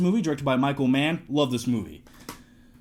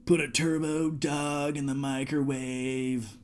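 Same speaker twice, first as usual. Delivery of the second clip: Christian Slater impression; 2 semitones lower, 6 dB quieter, slower than usual. Shown as a demonstration. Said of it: "Do you wanna see my Christian Slater impression?".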